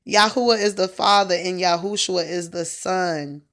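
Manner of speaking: loud, amused dismissal; scoffing. Retold or imitated. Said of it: "I was like".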